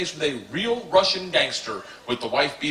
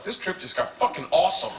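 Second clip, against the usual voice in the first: high-pitched giddy aside; acted-out excitement, pitched up; thrilled student; 7 semitones higher, 3 dB quieter than usual. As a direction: gush it like the best news ever. Thrilled student in gangster story.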